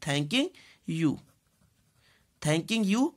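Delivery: ordinary talk, nothing marked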